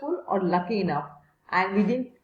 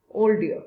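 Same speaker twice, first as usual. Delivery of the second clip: put-on "Old dear" said slowly and stressed, as a phrase on the board; teacher spelling out "Old dear" for the class; highlighted phrase. Shown as a demonstration. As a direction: stress "Old" and set the phrase apart for students. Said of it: "I'm again highlighting it".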